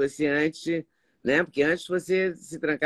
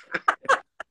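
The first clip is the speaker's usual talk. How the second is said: high burst of laughter; real laugh. Real, not acted. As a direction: crack up at your own story. Laughs at own salon anecdote.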